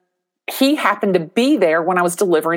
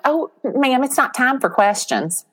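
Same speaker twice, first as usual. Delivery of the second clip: higher-pitched mock polite refusal; polite brush-off; 6 semitones higher than usual. Charity staff to a guest raising her hand, polite brush-off. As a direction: imitate someone gently shutting down a question.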